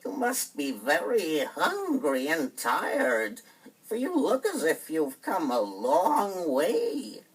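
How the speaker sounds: very slow, high, sugary invitation; sweet witch voice. Acted. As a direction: lure them in sweetly, dragging the words. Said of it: "spoke very sweetly".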